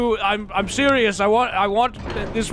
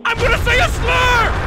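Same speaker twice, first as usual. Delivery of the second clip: high, loud mock-aggressive roar; hammed-up Nordic war cry; 5 dB louder than usual. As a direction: bellow it as an over-the-top threat. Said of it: "my Nordic aggressive voice".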